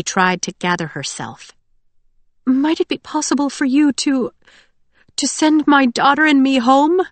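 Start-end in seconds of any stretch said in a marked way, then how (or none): 2.5-7.0 high, halting tearful request; sniffling, frightened plea. A narrator's reading. Tearful mother asking to take her daughter home, high pleading. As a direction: plead timidly, pausing to gather courage. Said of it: "she sniffed".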